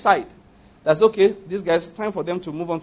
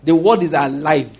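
emphasis; 3 semitones lower, 5 dB louder than usual. Shown as a demonstration. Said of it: "That's what I'm trying to emphasize".

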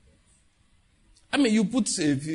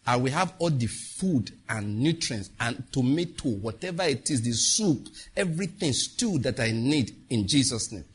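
slow, lower confession of faith; prayer declaration; 3 semitones lower, slower than usual. Shown as a demonstration. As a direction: declare the psalm slowly and firmly.

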